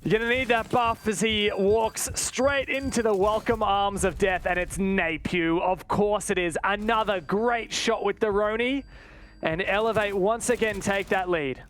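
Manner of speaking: brisk esports call of the round; live play-by-play. Acted. Caster calling the round live to viewers, brisk play-by-play. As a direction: keep the action rolling for viewers.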